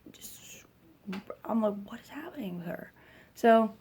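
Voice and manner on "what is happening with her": retold hushed disbelief, quick; bewildered undertone. Mother watching daughter scratch her chest, baffled undertone. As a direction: drop to a baffled near-whisper.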